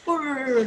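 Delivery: drawn-out "purr"; imitated cat purr. Shown as a demonstration. Teacher demonstrates a cat for children, mock purring. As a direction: draw out a purring sound. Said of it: "sound which cat makes".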